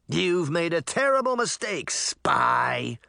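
restrained storybook shout; mock shout. A narrator's reading. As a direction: call out an accusation, theatrically. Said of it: "he shouted".

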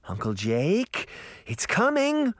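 high urgent warning; impatient cry. A narrator's reading. Girl urging her uncle as the monster comes, urgent. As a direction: hurry him up. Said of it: "Sabrina cried impatiently".

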